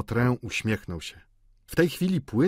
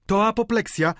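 high, raised cry of alarm; okrzyk; 12 semitones higher, 5 dB louder than usual. A narrator's reading. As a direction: cry out the diagnosis, pitched high. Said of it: "krzyknęła panna Michonu". (wysoki, głośny okrzyk kobiety)

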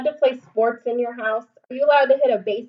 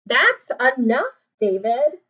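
louder firm rebuke; stern mom; 6 dB louder than usual. Acted. Mom scolding David at the table. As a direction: put your foot down.

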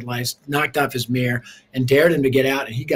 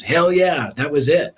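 a hint of a rough man's hearty agreement; eager yes; 4 dB louder than usual. Uncle Jack accepting gospel.

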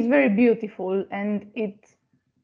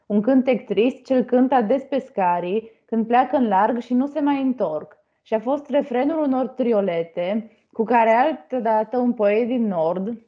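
fluent, measured Romanian poetry reading; poem recitation. Acted. Student reciting a Minulescu poem for the class, poem recitation. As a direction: recite the verses in even, connected phrases.

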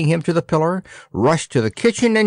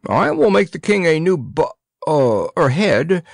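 puffing; 5 semitones higher than usual. A narrator's reading. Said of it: "puffed the baker".

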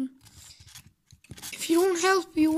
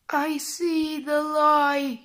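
dying words; much slower than usual. Pretend. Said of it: "pretend like you're dying".

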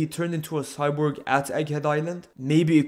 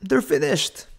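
dramatic whisper. Acted. Dramatic hype over Emperor Luffy.

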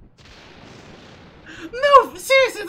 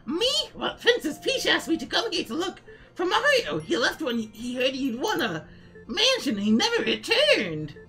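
Toad voice. Acted. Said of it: "I'm glad you all enjoy my Toad voice".

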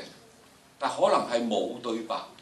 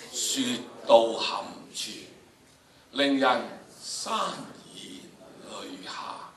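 tearful fading; slower than usual. Shown as a demonstration. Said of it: "有啲想喊".

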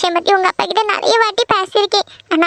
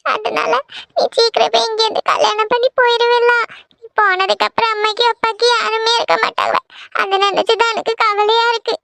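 tearful, worried mother, slightly raised pitch; a touch of weepy worry; 3 semitones higher than usual. Acted. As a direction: speak through mild tears to your daughter. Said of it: "ஏம்மா அழுக".

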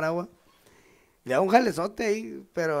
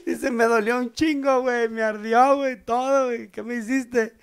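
complaining woman; 6 semitones higher than usual. Retold or imitated. Woman in joke complains afterwards.

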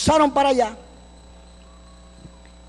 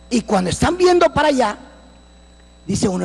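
ordinary delivery

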